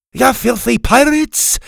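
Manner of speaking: high, loud insult hurled downward; outraged high-pitched yelling; angry shout. A narrator's reading. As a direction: spit it out slowly at the crew. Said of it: "was now shouting down at the crew".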